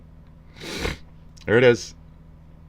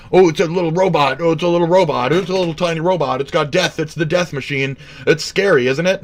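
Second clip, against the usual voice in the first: higher, mocking breathless fan voice; mock awed fan; 8 semitones higher than usual. Vlogger mocking fans gasping at a little robot, higher mock awe. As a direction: ham up a gushing fan.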